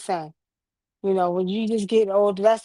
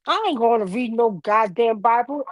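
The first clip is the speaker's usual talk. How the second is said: lightly imitated defiant grandfather; a hint of a cantankerous elder's refusal; grandfather's defiance; 2 semitones higher than usual. Grandson quoting grandfather refusing the Bible, mildly mock-defiant. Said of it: "he would literally say it just like this".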